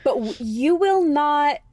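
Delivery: hushed, secretive whisper. Real, not acted. Holding back a spoiler from the friend, whispered. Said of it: "unvoiced whisper".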